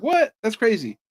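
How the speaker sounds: What jumps high in retold disbelief; surprised. To his nephew, who says a singer sucks, retelling high-pitched disbelief. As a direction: act shocked at your nephew. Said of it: "I'm like".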